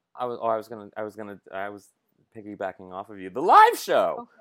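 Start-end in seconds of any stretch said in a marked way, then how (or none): 3.3-4.2 boisterous, very loud, pitched-up yelling. A co-host chiming in about their live show, yelling. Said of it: "I should stop yelling".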